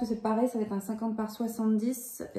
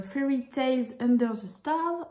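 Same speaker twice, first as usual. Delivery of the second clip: slow English title in a French accent; 3 semitones higher, slower than usual. Real, not acted. Vlogger reading a puzzle's English title, French-accented English. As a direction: read it carefully with a French accent. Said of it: "On adore mon accent anglais".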